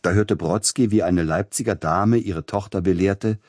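plain reading voice

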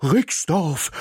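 dog echoing the answer excitedly; excited bark. A narrator's reading. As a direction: bark the name out eagerly. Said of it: "bellte Ismir aufgeregt".

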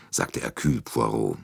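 ordinary delivery, nothing marked

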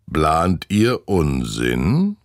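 slow, drawn-out stern teacher voice; deep stern voice. Acted. The teacher catching the kids plotting, sternly suspicious. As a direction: loom over them with suspicion. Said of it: "fragt unvermittelt eine tiefe Stimme".

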